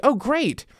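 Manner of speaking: sarcastic oh great. Retold or imitated. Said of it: "part of it's like".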